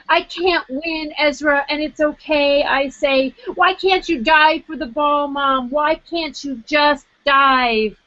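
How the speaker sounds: reading her essay aloud, lively and wry; story reading. Acted. Author reading her own chapter to the audience, lively.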